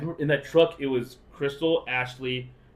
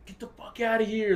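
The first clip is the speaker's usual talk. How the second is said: mock angry dad; 9 semitones higher than usual. Dad quoted cursing.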